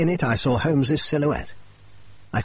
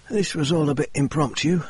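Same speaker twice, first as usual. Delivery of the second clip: a hint of Murray's higher voice; lightly voiced Murray telling his fall; lightly voiced injured man; 5 semitones higher than usual. Murray telling Holmes and Watson of his climb, lightly higher voice. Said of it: "Murray said".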